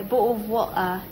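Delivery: British-accented BOTTLE OF WATER with a swallowed t; put-on British pronunciation of BOTTLE OF WATER. Shown as a demonstration. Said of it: "when you go say things in France or Britain".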